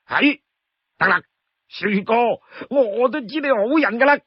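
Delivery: high, eager string of promises; overjoyed Li Kui. Acted. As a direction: agree to anything, bubbling over.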